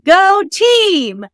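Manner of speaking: high-pitched retold team cheer; echoed cheer. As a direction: imitate someone echoing an awkward cheer. Star echoes her awkward cheer.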